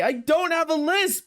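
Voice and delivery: high, lisping, warped mic voice; glitchy mic lisp. Real, not acted. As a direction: voice bent high by a broken filter. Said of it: "I sound like Mike Tyson".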